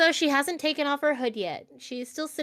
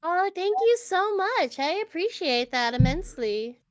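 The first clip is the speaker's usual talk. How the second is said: put-on awkward girl voice; 4 semitones higher than usual. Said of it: "awkward girl voice".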